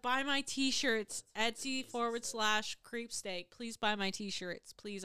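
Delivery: slow, loud hammed-up pitch; slow hammed-up plug; mock sales plea. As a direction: drag out the shameless plug. Joking self-promo plea.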